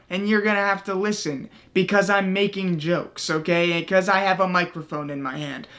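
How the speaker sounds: mock a cocky comedian bragging on stage; mocking Chappelle. Host mocking Dave Chappelle, a lightly voiced smug comic. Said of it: "go up on stage and be like".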